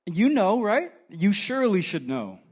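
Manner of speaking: high, knowing mock-questioning; mildly sarcastic prodding; a little sarcastic. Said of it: "I kinda see it a little sarcastically".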